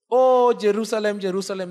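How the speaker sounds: grieving cry over the city; pathos-filled lament. Shown as a demonstration. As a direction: let the repeat fall away with tender ache. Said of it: "There is pathos in those words".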